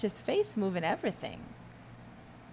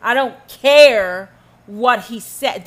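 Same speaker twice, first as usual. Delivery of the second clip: 1 mock supporter; 10 dB louder, slower than usual. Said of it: "and you say".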